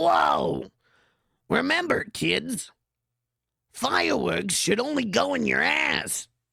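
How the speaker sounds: high, rough cartoon voice. Joking about a cartoon and acting out Popeye's reply to his nephews: Popeye voice. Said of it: "And then Popeye is like".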